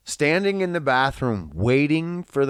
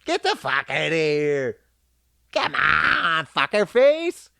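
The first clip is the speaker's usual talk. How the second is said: affectionate; 3 semitones higher, 3 dB louder than usual. Shown as a demonstration.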